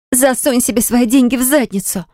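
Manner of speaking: high furious squeal; a shrill outraged cry; shrieking. A narrator's reading. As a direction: shriek it at him in rage. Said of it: "взвизгнула она".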